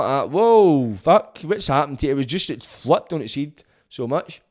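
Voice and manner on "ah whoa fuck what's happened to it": taken aback, louder swooping whoa; retold surprise. Defendant hears the judge change tack, retold surprise. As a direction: relive being caught off guard. Retelling shock at judge's sudden turn.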